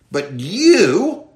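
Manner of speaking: "you" leaned on; stress on YOU. Shown as a demonstration. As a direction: hit "you" firmly. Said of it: "the you is emphatic".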